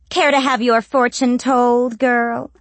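high, sly crone voice; old witch voice. A narrator's reading. Witch offers fortune.

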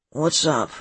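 put-on drowsy young man on the phone; sleepy. A narrator's reading. Seth takes Lex's call, sleepy. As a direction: mumble it as if just woken. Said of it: "says a sleepy voice".

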